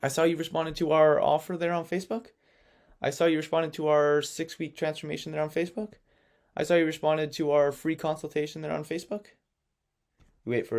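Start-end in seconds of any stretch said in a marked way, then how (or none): 0.0-9.3 skeptical question. Shown as a demonstration. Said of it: "kinda like in a skepticism tone".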